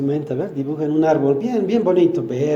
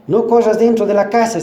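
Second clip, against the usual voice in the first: put-on loud, higher yell at a child; shouted warning; 6 semitones higher, 5 dB louder than usual. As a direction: bark the order across the house. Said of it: "si les grita".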